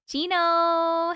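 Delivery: only a whisper; whispered name. Real, not acted. Streamer whispers a viewer's name.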